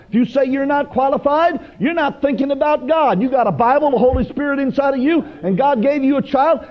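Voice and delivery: high-pitched, driving exhortation; fervent preaching. Real, not acted. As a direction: challenge the congregation with rising fervour.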